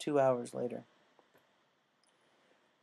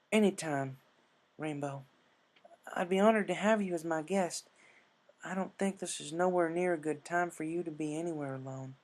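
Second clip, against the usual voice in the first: higher, gentle country comfort; reassuring Applejack; 5 semitones higher than usual. Acted. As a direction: soothe a scared friend. Applejack warm offer.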